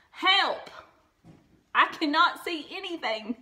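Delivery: dazzled and panicking; alarmed Toad. A narrator's reading. Toad blinded by bright sun.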